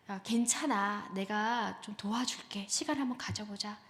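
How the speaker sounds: slow, gentle reassurance; reassuring parent. Acted. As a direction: act out a supportive parent, taking it slowly. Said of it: "부모님한테 이런 말을 듣고 싶대요".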